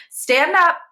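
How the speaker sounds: loud, high barked command; shouted order. A narrator's reading. Teacher shouting an order at the class, loud and high. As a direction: bark the order.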